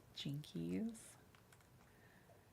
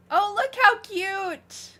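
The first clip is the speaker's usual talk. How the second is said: high, slow, louder coo over something cute; delighted cooing; 10 semitones higher, 7 dB louder, slower than usual. Real, not acted. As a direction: gush like over a puppy. Admiring cute gift on stream.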